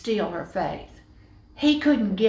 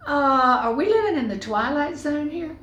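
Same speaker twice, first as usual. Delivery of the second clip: bewildered man; 4 semitones higher than usual. Acted. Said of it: "They would have gone".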